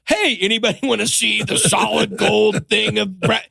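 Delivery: mock showing off. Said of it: "I'm like".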